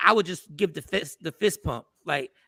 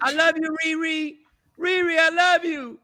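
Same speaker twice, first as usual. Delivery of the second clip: high, drawn-out fangirl call; mock fan yelling; 7 semitones higher than usual. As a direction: imitate a fan calling out to a star. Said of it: "I've never yelled out".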